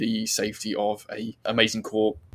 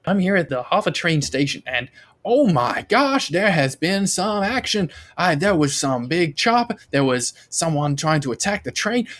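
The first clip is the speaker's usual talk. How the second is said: higher, louder, gushing live report; social media reporter; 5 semitones higher, 4 dB louder than usual. Acted. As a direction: play a flustered reporter live on the scene. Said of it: "live news footage coming through from the station, some social media reporters".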